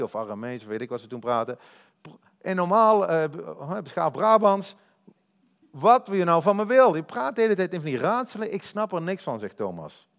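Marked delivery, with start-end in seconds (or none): 2.4-9.4 louder, impatient and baffled, pitched up; frustrated disciple pleading for plain words; exasperated confusion. Acted. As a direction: complain like someone totally lost. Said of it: "Hij snapt het niet".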